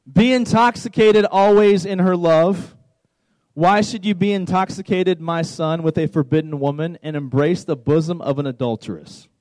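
emphatic scripture reading, easing down by the end; measured reading meant to make listeners squirm; slow, deliberate reading. Shown as a demonstration. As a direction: read the verse out deliberately. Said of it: "read it very, very slowly".

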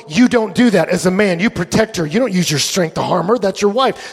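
firm imitation of a protective buddy; mildly forceful retold rebuke; coming on strong. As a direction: lay down the rule to a friend, forcefully. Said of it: "he's coming strong in his buddy".

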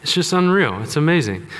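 mock-enthusiastic sarcasm; gushing with heavy irony; sarcastic. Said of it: "That's sarcastic if you're not on board".

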